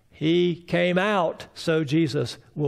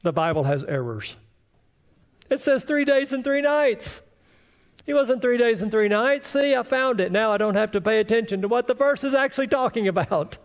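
higher, gleeful gotcha voice; mocking unbeliever; 5 semitones higher than usual. Preacher mocks the skeptic who thinks he found a Bible error, gleeful and higher. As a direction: crow like a smug skeptic catching an error. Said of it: "the unbeliever comes to this verse and says".

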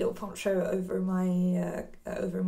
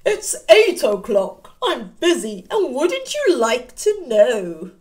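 lightly voiced, louder sly wolf; teasing Mister Wolf; 7 dB louder than usual. Wolf teasing the children who ask what he does, a touch louder. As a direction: tease them like a sly wolf.

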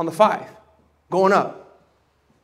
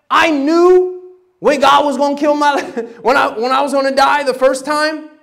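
laughing; 6 semitones higher, 5 dB louder than usual. Real, not acted. Preacher recalls nearly dying.

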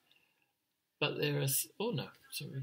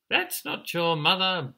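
higher-pitched bee voice; buzzing bees; 6 semitones higher, 4 dB louder than usual. Acted. Bees correct the emu chick, higher buzzing voice. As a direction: pipe up like a busy little bee. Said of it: "buzzed the bees".

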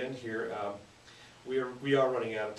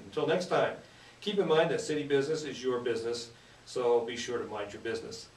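radio announcer sign-off; 4 dB louder than usual. Acted. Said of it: "Do I sound like a professional radio person?".

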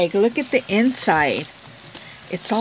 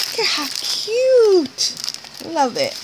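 squeaky gush; 8 semitones higher than usual. Real, not acted. Gushing over a cute gift.

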